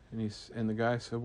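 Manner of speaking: ordinary delivery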